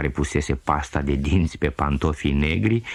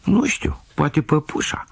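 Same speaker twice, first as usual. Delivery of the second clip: put-on little girl's answer; 10 semitones higher than usual. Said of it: "răspundea fetița".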